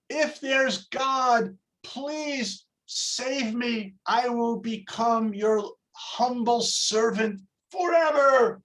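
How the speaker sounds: slow, hammed-up begging; mock yelled plea. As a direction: stretch out a desperate bargain, slowly, without real shouting. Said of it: "And he yells".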